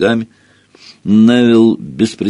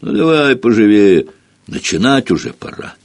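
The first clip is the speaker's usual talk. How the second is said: gentle giant voice; 4 semitones higher than usual. Acted. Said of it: "послышался и голос великана".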